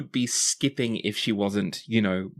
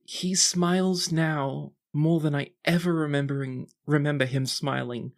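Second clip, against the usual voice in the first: put-on higher, tender girlish voice fading out; heartfelt tipsy sister; 4 semitones higher than usual. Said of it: "look of abandon in her eyes".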